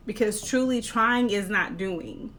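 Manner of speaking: "trying" pressed, set against "doing"; emphasis on "trying" as the key word; stress on trying. Shown as a demonstration. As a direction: lean into "truly trying", then land "not doing". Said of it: "I wanna emphasize that word trying".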